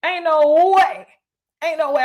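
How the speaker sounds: flat-out refuse, "ain't no way"; emphatic refusal. Real, not acted. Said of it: "having her drink".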